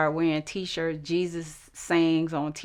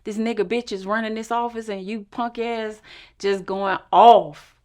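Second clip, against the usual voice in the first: faster, building to a shout; retold angry rant; 4 semitones higher, 6 dB louder than usual. Andy threatening the director, a fast angry rant. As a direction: rail at the director, getting louder. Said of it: "threatening them".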